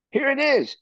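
high-pitched mock cry of confession; retold scream. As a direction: call it out high, as if re-enacting a panicked moment. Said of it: "I screamed".

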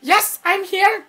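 slow, high alien monotone; Conehead. Acted. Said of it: "I'm gonna do my Conehead impression".

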